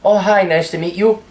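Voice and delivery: the guys teasing his date in mock disbelief; mock shocked friends. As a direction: friends ribbing him in mock alarm. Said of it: "if they don't loop you into it".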